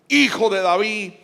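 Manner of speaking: a brief, half-strength cry. Acted. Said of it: "pero él clamaba".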